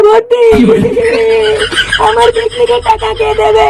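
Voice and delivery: slow, hammed-up tearful lament; mock crying. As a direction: fake sobbing to dodge paying. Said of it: "কান্না করছিস কেন". (নাটুকে কান্না, ধীরে ধীরে)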